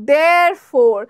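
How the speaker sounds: Therefore said "dh-eh-fo", r dropped; therefore demo. Shown as a demonstration. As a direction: swallow the r in Therefore, "defo". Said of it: "উচ্চারণ কিরকম হবে?".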